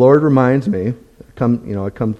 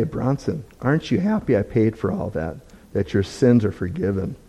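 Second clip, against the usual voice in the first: soft, tender questioning in a retold divine voice; gentle; 5 dB quieter than usual. The Lord reassuring Bronson that his sins are paid for, gently. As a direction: softly imitate the Lord's gentle reassurance. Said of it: "The Lord will gently say".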